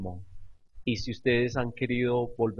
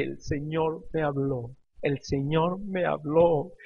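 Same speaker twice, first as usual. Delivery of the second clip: slow, drawn-out words, a touch of tears; retold tearful confession; 2 semitones higher, slower than usual. Pastor retells telling his wife through tears, slow mock sobbing. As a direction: act out sobbing it slowly, understated. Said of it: "y yo lloré como un niño".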